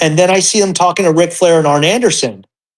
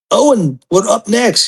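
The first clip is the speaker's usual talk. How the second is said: lightly imitated wrestler's accent, pitched up; Davey Boy; 4 semitones higher than usual. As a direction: put on a hint of the wrestler's accent. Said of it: "his, his accent".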